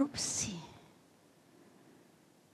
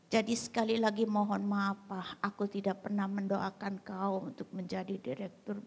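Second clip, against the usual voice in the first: subdued apology; 5 dB quieter than usual. Acted. Wife calms down, apologises again.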